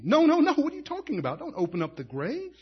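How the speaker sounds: sharp no no no, then dropping away; mock protest. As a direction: push back like a worried sister. Voicing Martha's protest.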